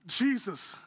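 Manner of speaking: "Jesus" said plainly and sincerely, no slang; name "Jesus" with simple respect; earnest address. Pretend. Preacher giving Peter's respectful answer to Jesus, earnest. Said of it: "No, he didn't say".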